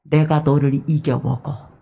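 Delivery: slow, firm 내가 stressed with a rise; slow, confident claim of victory; bold declaration. Shown as a demonstration. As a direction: declare 내가 너를 이겨먹어 with conviction. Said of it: "그러지 말고".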